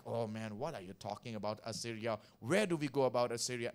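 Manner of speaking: a hint of a puzzled churchgoer; mock objection from the congregation; skeptical listener. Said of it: "You may think like".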